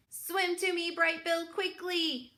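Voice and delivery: calling out high and urgent to her son. Acted. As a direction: call him over the water, urgent. Roz calls to her son.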